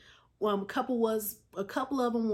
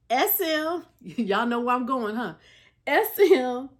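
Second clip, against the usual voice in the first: giggling through the names; can't hold back the laughter; real laughter breaking into the words; laughing; 5 dB louder than usual. Real, not acted. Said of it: "I'm sorry I'm laughing".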